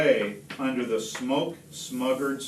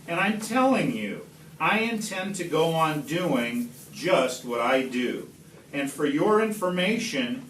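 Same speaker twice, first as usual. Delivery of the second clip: yelling at the Lorax; 2 semitones higher than usual. Acted. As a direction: shout down the nagging Lorax. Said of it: "I yelled at the Lorax".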